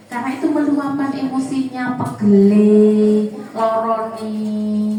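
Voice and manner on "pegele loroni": mock whiny child. Voicing a child's complaints.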